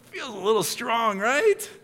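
very high incredulous parent voice; mock parent. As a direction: squeak it out like a baffled parent. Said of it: "imagine parents ... being like".

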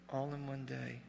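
quiet, awed echo. Shown as a demonstration. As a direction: let the repeat drop to a hush.

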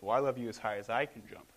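lightly voiced dad, close to normal pitch; a hint of a dad playfully topping his child; daddy bunny. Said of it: "And the dad says".

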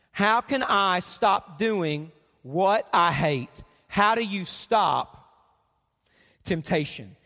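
each word drawn out slowly; slow, weighted question. Shown as a demonstration. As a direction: read the question slowly, letting it land. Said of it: "Look at this question".

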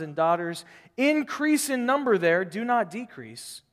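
deliberate pulpit reading; scripture reading. Acted. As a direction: proclaim it slowly like a prophet. Reads the prophet's letter aloud.

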